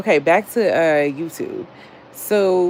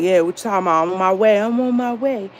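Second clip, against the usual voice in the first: put-on higher, Atlanta-accented homeboy reassurance by the end; 4 semitones higher, faster than usual. Late homeboy insisting to his waiting friend, in an Atlanta accent. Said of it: "he had that strong ass Atlanta accent".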